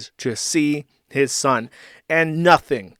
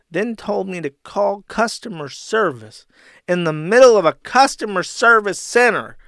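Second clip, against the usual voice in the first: mock angry complaint; 3 semitones higher, 4 dB louder, slower than usual. Reading Ralph's angry reply.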